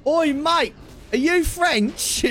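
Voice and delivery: high, drawn-out mock hail; calling out. Asking a random Frenchman where to eat, drawn-out mock call. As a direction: hail a stranger with comic gusto.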